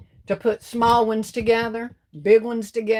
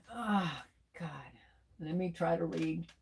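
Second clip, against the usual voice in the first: whispering; 3 semitones lower, 14 dB quieter than usual. Real, not acted. Quietly reading comments to herself.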